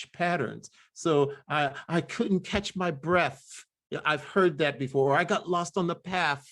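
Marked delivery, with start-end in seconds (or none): 1.9-3.6 slower, "breath" as "bref"; Georgia dialect. Retold or imitated. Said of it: "still hear some of these same patterns". 5.2-6.5 "path" said as "paf"; Georgia dialect. Retold or imitated. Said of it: "still hear some of these same patterns".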